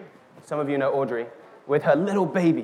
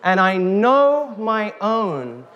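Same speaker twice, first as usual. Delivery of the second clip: reading scripture; slower than usual. A narrator's reading. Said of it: "It says".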